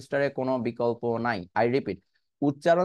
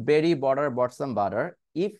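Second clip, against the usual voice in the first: slow practice reading; much slower than usual. Shown as a demonstration. Teacher reading slowly before the fast version, slow practice reading. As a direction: read it slowly, word by word. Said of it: "আমি slowly আগে পড়ছি".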